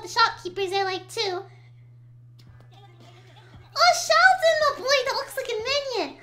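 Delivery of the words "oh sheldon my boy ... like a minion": excited. Real, not acted. Excited at shopkeeper.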